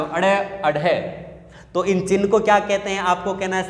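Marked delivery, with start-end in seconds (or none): 0.0-1.2 slow अड़े, अढ़े, each opening on "a"; added leading vowel. Shown as a demonstration. Teacher demonstrates the rule, slow flapped अड़े, अढ़े. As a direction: flap अड़े, then the aspirated अढ़े, drawn out. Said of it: "के आगे ए लगा दो".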